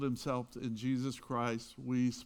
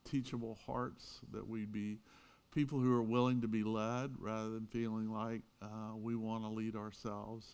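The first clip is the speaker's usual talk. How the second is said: prayer; 2 semitones lower, 3 dB quieter than usual. Acted. Pastor's opening prayer.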